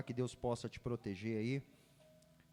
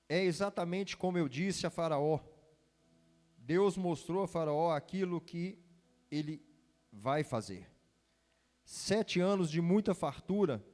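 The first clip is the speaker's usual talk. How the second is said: higher, louder solemn Bible reading; scripture reading; 4 semitones higher, 4 dB louder than usual. Acted. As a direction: read the Word with weight. Reads scripture aloud.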